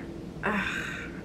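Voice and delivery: soft, breathy sigh; deflated sigh. Retold or imitated. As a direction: sigh as the bad news sinks in. Sighs after retelling the crash.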